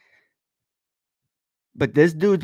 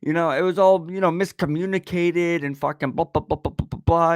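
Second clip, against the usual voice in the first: mocking ex; 4 semitones higher than usual. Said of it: "she even tried to tell me".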